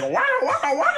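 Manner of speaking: high, goofy waka-waka; wacky comic catchphrase; silly waka-waka noise. Acted. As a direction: toss out a high, clownish babble.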